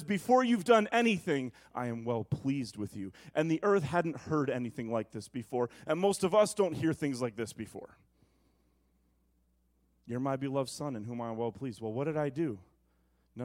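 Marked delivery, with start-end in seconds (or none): 0.0-3.1 tender affirming voice. Retold or imitated. Preacher voicing God's affirmation, low and tender. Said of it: "a voice that says". 10.1-11.8 soft, low, tender declaration; fatherly affirmation. Retold or imitated. Preacher quoting God to the congregation, soft and low. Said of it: "God's voice".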